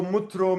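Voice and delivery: "mutro" with u after the m; wrong vowel guess. Shown as a demonstration. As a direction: say "mutro", a misreading of metro. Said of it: "or maybe it is".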